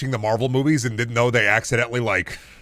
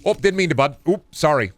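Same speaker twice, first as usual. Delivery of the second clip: higher-pitched, apologetic Midwesterner; Midwestern Doom Guy; 6 semitones higher than usual. Acted. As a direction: squeeze past like an overly polite Midwesterner. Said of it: "Midwestern Doom Guy be in the middle of".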